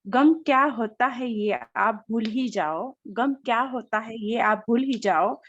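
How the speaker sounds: reciting poetry. Acted. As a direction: recite a shayari couplet by couplet. Recites a birthday shayari.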